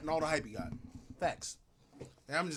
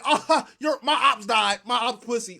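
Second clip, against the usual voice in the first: mock therapy patient; slower than usual. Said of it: "imagine going to the therapy session like".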